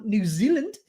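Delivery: put-on botched New Zealand accent; a wobbly stab at a New Zealand accent; unidentifiable accent. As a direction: slip into a muddled New Zealand-ish accent. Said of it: "I don't know what accent that was".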